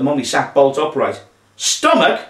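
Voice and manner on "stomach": high-pitched appalled question; shocked cry. A narrator's reading. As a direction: cry it out in alarm. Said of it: "she cried".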